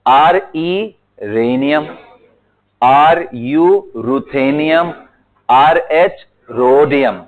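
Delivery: slow, each symbol "आरई", "आरयू", "आरएच" spelled out before its name; teacher spells out each symbol slowly, then says its name; careful symbol and name. Shown as a demonstration. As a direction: pin the letters "आरई", "आरयू", "आरएच" slowly before "रेनियम", "रुथेनियम", "रोडियम". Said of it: "बड़ा हल्का हल्का सा difference है इनमें".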